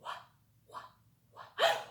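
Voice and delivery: sounding out wha- softly, over and over; drawn-out wha sound. Shown as a demonstration. Teacher hinting the day's first sound to children, softly. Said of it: "It starts with wha".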